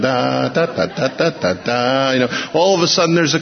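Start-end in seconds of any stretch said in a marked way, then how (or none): 0.0-2.1 sung-out da-da violin bit; imitated violin. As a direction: mimic a background fiddler with little syllables. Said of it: "playing the violin in the background".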